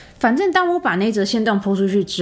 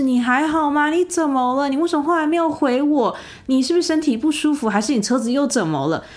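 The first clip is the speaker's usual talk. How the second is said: higher, anxious caring questions; worried messages; 7 semitones higher than usual. Retold or imitated. Former friend texting at dawn about her health, mock worried. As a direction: pile on the worried questions, lightly voiced. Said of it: "各种关心的，关心的话题".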